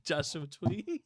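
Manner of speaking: slow, laughing "Twee" with a W for R. Retold or imitated. Laughing over own slip, "Twee" with a W sound. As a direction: giggle out "Twee" in place of tree. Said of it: "I kept saying Joshua Twee".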